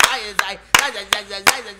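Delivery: drawn-out, very slow. Pretend. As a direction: stretch it out slowly. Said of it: "slow deliberate silly line".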